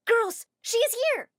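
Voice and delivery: high loud call; alerting shout. Acted. Fan girl shouts to the others, high and loud. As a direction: sound the alarm to the crowd.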